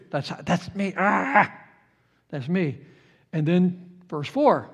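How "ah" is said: short mock cry of anguish; anguished groan. Preacher relating to Job's pain, brief acted groan. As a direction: let out a brief pained "ah". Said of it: "Emotional realism. It's real".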